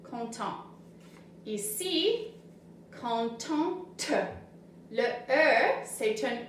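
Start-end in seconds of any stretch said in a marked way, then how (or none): 0.1-0.6 content said softly with no T at the end; silent final T. Shown as a demonstration. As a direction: drop the T of content completely. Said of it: "Tu n'entends pas le T à la fin de content".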